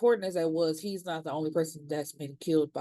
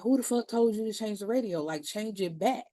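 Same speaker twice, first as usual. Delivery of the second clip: higher, fast mock outburst; retold anger; 4 semitones higher than usual. Big Teak yelling over the radio, higher and fast. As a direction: snap at whoever touched the radio. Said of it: "he got mad then".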